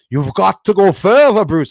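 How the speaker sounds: put-on booming, loud, grave, serious Scottish accent. Quoting a man with a scottish accent, in a serious scottish accent. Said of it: "it sounds so serious with what he was saying with his accent".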